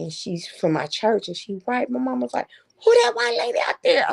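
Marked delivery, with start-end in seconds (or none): 2.8-4.1 higher, faster mock mom; nosy mother. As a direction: blurt it out like a nosy old mama. Mom voiced in story.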